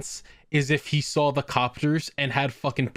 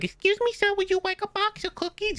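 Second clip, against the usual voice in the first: put-on very high sweet-seller child voice; squeaky mock little girl making her pitch; little Girl Scout. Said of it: "Girl Scouts outside selling cookies".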